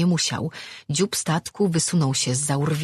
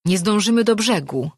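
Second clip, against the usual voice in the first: higher-pitched dismayed wail; moaning; 6 semitones higher, 4 dB louder than usual. A narrator's reading. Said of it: "jęknął Darm".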